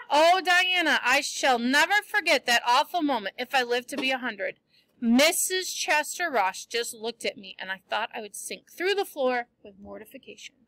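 reading a novel aloud to the class; story reading. A narrator's reading. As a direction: tell the story lively, voicing the characters. Teacher reads novel to class.

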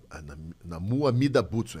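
soft monk prayer. Shown as a demonstration. Voice actor corrects the prayer, slow and soft. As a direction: pray it gently like a kind giant. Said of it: "Ele fala meio suave, assim".

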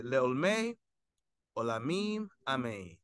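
careful Sephardic Hebrew, phrase by phrase; textbook Sephardic pronunciation. Shown as a demonstration. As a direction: close the prayer as a pronunciation model. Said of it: "the textbook way, uh, the Sephardic dialect".

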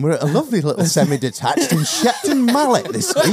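cheery presenter voice; lightly mock TV host; makeover host. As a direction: sell the transformation. Mock makeover show intro.

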